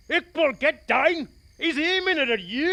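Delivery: high, loud frantic yell; frantic warning shout. Acted. Hilliard yelling at Iqbal to get down, frantic. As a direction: scream the warning to save him.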